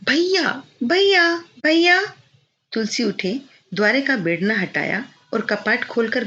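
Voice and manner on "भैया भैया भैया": put-on high sweet girl's call, growing louder; repeated calling. A narrator's reading. Bela calls from outside the door, insistent high calling. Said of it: "आवाज पर आवाज चली".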